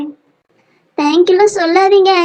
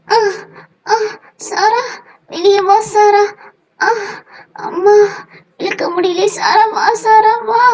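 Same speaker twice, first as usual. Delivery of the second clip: higher, effortful calls broken by gasps; straining pull; 4 semitones higher than usual. Acted. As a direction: urge her out while heaving hard.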